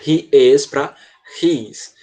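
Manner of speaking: "He is" then contracted to "his"; he is versus his. Shown as a demonstration. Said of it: "olha a diferença". ("He is" contra "his")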